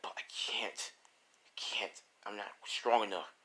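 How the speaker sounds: near-whispered helplessness; soft, defeated murmur; quiet despair. Acted. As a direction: admit defeat under your breath.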